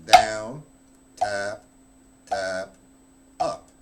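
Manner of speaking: counting stroke levels aloud, "down" loudest; stress on down. Shown as a demonstration. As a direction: punch "down" like the accent stroke. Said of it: "I'd have this with the levels".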